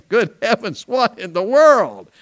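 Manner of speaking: high, loud startled cry, drawn out; scared shout of surprise; startled exclamation. Retold or imitated. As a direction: jump out of your skin at a barking dog. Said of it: "I thought".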